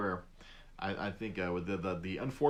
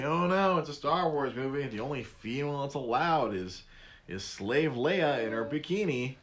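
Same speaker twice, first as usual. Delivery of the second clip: mock incel fan; 4 semitones higher than usual. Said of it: "I'm guessing incels didn't like".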